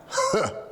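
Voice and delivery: a single high "Huh" of a half-laugh; imitated grunt laugh. Coach retelling the one guy who laughed, single high huh. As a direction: mimic one lone chuckle. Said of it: "one guy in the front went".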